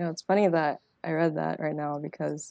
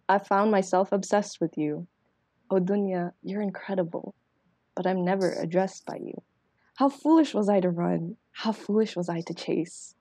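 spoken word poem. Acted. Reciting her poem to the podcast hosts, in a rhythmic spoken word delivery.

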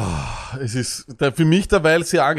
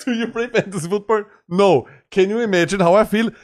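higher, teasing parody of his friend; mocking imitation; 6 semitones higher than usual. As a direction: poke fun by imitating his friend's question. Mocking his friend's phone call.

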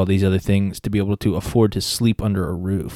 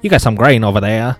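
slightly higher, friendly bargaining; folksy trader pitch; 4 semitones higher, 3 dB louder than usual. Pretend. Pilgrim offering potatoes for grain, folksy bargaining. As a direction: sell the swap like a friendly farmer. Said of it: "I looked at him and I said".

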